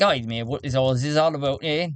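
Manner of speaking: loosely British gentleman character voice; the speaker's accent. Acted. Councilman asking what all this is about, lightly put-on British accent. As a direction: play the councilman with a slight British lilt. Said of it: "he talks like this".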